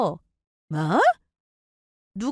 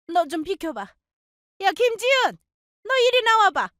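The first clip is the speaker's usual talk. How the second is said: put-on high, shouting older woman; furious mother-in-law; 8 semitones higher than usual. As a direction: push past her son and go for her.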